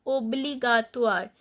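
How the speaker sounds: "oa" sound in obligatoire. Shown as a demonstration. French teacher explaining the O I sound, "oa" in obligatoire. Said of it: "O I sound is oa".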